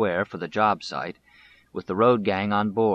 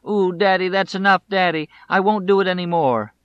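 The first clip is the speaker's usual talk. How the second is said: high, loud, wailing mock sob; crying plea; 10 semitones higher, 6 dB louder than usual. Boy begs his slapping father to stop, crying. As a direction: beg through imitated tears. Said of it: "Lyndon was crying".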